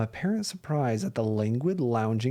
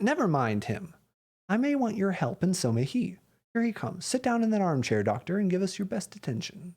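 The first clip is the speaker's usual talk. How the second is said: slightly hurried detective giving orders, pitched up; lightly voiced Holmes; 6 semitones higher than usual. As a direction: settle your friend in with a lifted voice.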